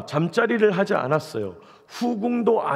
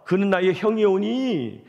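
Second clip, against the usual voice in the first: higher, slow protest with drawn-out ending; acted indignation, stretching the last syllable; exasperated king; 4 semitones higher, slower than usual. Solomon rebuking his mother over Adonijah, exasperated. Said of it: "지금 솔로몬이 너무 화가 나고".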